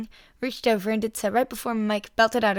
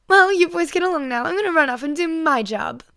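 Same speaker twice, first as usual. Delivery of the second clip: Midnight voice; 8 semitones higher, 7 dB louder than usual. A narrator's reading. Midnight's cheery farewell.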